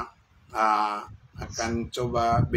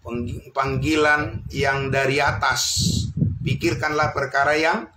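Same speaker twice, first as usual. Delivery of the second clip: measured, emphatic sermon delivery; preaching. Real, not acted. Pastor expounds the verse to livestream congregation, measured preaching. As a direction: preach it slowly, drawing out the key phrases. Preaches after technical apologies.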